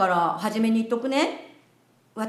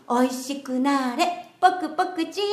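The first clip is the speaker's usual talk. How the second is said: sugary maid cafe greeting; 2 semitones higher than usual. Pretend. Invites master to chant along.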